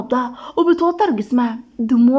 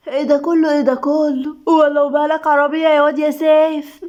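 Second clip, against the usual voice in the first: higher-pitched, admiring exclamation; impressed gushing; 4 semitones higher than usual. A narrator's reading. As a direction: gush like an impressed neighbourhood woman. Neighbour gushing over the car. (بانبهار وتهليل)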